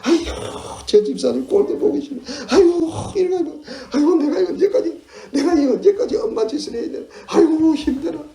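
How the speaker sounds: high, loud mock lament; complaining. Worn-out parent moans about endless mothering, exasperated mock wail. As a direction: wail your grievances with big sighing exclamations. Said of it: "불평하고 원망하고 탓하고".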